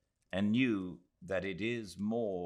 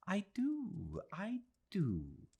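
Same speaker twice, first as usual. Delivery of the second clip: put-on high, lively old lady voice; old woman's voice, higher, suddenly alive again; Mrs Moore, suddenly vital; slower than usual. A narrator's reading. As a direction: brighten up with sudden youthful life. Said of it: "suddenly vital and young".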